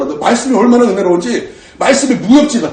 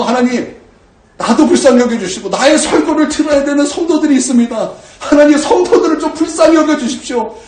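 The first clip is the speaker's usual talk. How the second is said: raised, pleading prayer voice; fervent crying prayer; 8 semitones higher, 3 dB louder than usual. Retold or imitated. Pastor retells his tearful prayer, mildly fervent. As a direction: call out to God, begging hard. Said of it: "하나님 앞에 간절히 기도했었어요".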